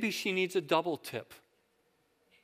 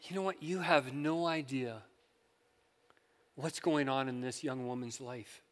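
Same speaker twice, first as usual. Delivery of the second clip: soft, inward reproach; hushed, measured retold thought; thinking to oneself; 4 semitones lower, 7 dB quieter than usual. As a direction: quietly say it as a private thought. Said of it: "I thought to myself".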